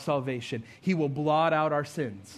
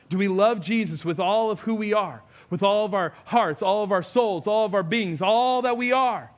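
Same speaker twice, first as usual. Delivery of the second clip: raised, insistent build through the list; fervent sermon appeal; impassioned preaching; 4 semitones higher, 4 dB louder than usual. Real, not acted. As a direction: drive each "all" home, rising to a peak.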